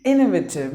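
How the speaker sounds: innovative with the first syllable IN hit hardest; teacher modelling innovative; stress at the start. Shown as a demonstration. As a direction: punch the IN of innovative. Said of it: "You have to give the stress in the beginning".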